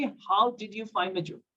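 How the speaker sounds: every word of "How did you find my joke?" drawn out slowly; very slow and clear. Shown as a demonstration. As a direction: explain it gently to a foreigner. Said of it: "तब बोलेगा कि". (बहुत धीमे, साफ़ साफ़)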